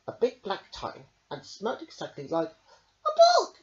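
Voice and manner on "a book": high, loud joyful cheer. Acted. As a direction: cheer at the find. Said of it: "cheered Mouse".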